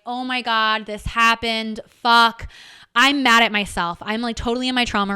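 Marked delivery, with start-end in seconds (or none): 0.1-2.5 upset retold text. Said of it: "I am immediately like".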